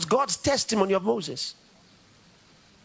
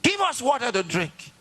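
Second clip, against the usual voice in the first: higher, demanding crowd voice; mock shout of the crowd; 5 semitones higher than usual. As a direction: demand water from Moses. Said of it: "shouted at him".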